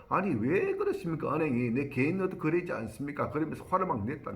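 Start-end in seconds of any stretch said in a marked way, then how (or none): 0.1-3.3 annoyed retort. Retold or imitated. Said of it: "짜증을 내면서".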